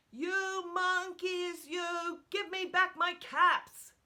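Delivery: high, loud indignant demand; storybook anger, pitched right up; angry peddler. A narrator's reading. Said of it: "That made the peddler angry".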